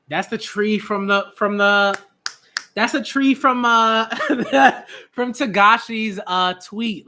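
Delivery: loud, high excited burst with a laugh; excited recognition. Real, not acted. Fan recognizing the tree from the author's tweet, thrilled. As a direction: blurt it out, laughing in disbelief.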